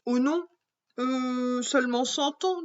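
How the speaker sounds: put-on a girl breaking the news gently; a hint of a hesitant young girl; Clémentine, hesitant. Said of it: "dit Clémentine".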